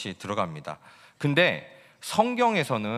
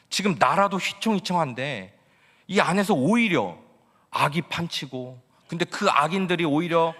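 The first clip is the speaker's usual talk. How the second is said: indignant complaint; 4 semitones higher than usual. Acted. Habakkuk accusing God of allowing injustice, indignant protest. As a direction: press God with a bitter, demanding question. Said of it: "이런 하박국의 질문에".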